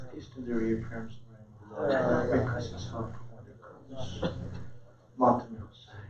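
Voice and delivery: soft, low murmured prayer; hushed supplication. Real, not acted. Preacher closing with a dua, hushed murmured prayer. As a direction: pray under the breath, fast and low.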